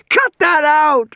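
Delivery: high, loud, slow yell; desperate yell. A narrator's reading. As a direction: yell it in panic as you're pinned. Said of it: "Regis yelled".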